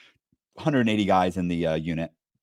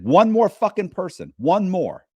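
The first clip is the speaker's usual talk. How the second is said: higher and louder, slow menacing warning; angry threat; 10 semitones higher, 5 dB louder, slower than usual. Retold or imitated. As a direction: lean in and threaten him, each word heavy. Threatening the man who talked.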